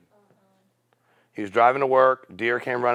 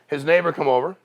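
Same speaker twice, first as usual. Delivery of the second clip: ordinary talk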